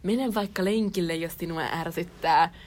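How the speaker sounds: slow, drawn-out mock of tired advice; lightly exasperated mimicry, slowed down; mocking imitation. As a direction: parrot an annoying argument, dragging the words. Mimicking an argument that irritates her.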